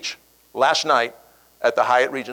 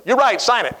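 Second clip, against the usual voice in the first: mock giving in; 9 semitones higher, 3 dB louder than usual. Manager gives in.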